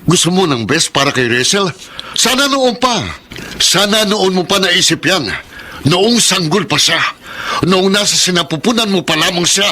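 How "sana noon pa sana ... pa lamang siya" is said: higher, pressing and accusing; bitter reproach. Acted. Father confronting the mother who left, bitter and accusing. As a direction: throw her past back at her. Husband berates wife, quarrel.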